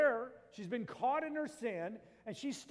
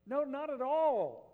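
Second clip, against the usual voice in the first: firm denial; 5 semitones higher, 6 dB louder, slower than usual. Real, not acted. Rejecting the misreading.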